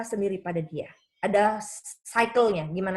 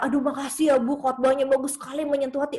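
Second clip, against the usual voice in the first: lightly voiced grateful churchgoer, higher pitch; imitated gushing praise; 4 semitones higher, 3 dB louder than usual. Churchgoers thanking the preacher for her sermon, mildly gushing. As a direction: gush a little, pitched up.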